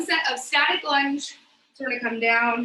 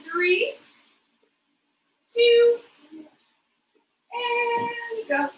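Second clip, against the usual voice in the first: drawn-out loud call; 7 semitones higher, 5 dB louder, much slower than usual. Real, not acted. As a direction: stretch out a loud, high go. Coach launches the set.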